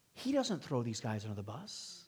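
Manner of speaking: hushed, whispered conviction; soft unvoiced sermon whisper. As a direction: draw them in with a whisper.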